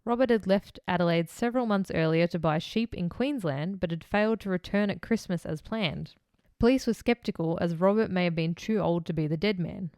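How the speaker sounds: measured reading of a case file; true-crime narration. A narrator's reading. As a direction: read the account out formally, in phrases. Reads the case script.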